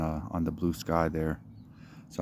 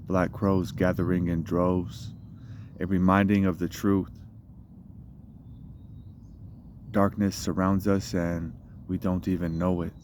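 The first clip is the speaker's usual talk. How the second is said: measured spoken-word recital, line openings pushed; poetry reading. Acted. Poet reads own poem in the park, measured recital. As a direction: recite it as a poem, pausing between phrases.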